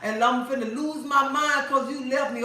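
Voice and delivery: mock plea to a leaving husband; mock begging. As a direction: imitate a desperate clingy woman. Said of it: "begging him, pulling on him".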